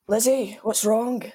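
lightly voiced Jamie after a gasp; gasp, then ask with a hint of whisky in the voice; Sam. Jamie asks frightened Lizzie, lightly imitating Sam. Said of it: "That sounds exactly like Sam".

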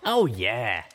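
deadpan. A narrator's reading. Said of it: "one of the Wonderbolt bucks deadpanned".

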